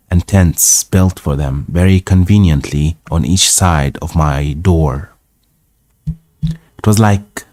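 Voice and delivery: measured read-aloud narration; story narration. A narrator's reading. Reading an old travel tale aloud, story narration.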